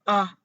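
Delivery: "Ah" dropping sharply as if struck; falling tone demo. Shown as a demonstration. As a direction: say "Ah" like someone hit you. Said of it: "just like someone hit you".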